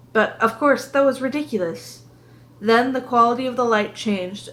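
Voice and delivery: measured audiobook narration; story narration. A narrator's reading. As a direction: read it aloud as a first-person storyteller. Reads the story aloud.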